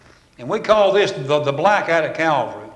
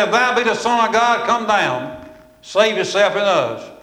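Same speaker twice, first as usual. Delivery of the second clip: retold challenge, pitched higher; 3 semitones higher than usual. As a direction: call it out like a preacher quoting a challenger. Quoting thief's challenge on cross.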